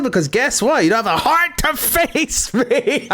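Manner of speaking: a quote read through giggles; reading out, laughing. Retold or imitated. Reading a fan's Valentine card, laughing. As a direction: laugh your way through the line. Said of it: "Someone replied to my Valentine's card with".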